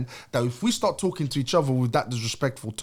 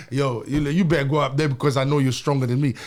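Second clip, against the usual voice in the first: louder, urgent imitation of a partner; mock urgent urging; 4 dB louder than usual. Woman telling her man to face an intruder, mock urgent. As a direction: urge him on loudly, as a quote.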